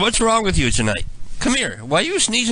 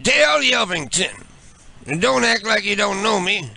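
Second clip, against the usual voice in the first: higher, overly friendly fake pal; chummy prank caller; 4 semitones higher than usual. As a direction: greet him like an old buddy he's never met. Prank caller playing a fake persona.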